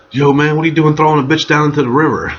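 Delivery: high-pitched mock questioning; incredulous friend. Friends texting after hearing the gossip, mock incredulity. Mimics friends' texts about the incident.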